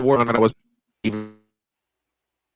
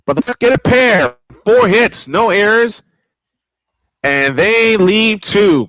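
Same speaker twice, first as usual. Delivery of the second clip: upbeat recap; 5 semitones higher, 3 dB louder than usual. Acted. Announcer's end-of-inning recap.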